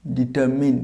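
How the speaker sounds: ডিটারমিন with a short final "min"; corrected ডিটারমিন. Shown as a demonstration. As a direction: repeat ডিটারমিন as "di-ter-min". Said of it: "উচ্চারণটা হবে".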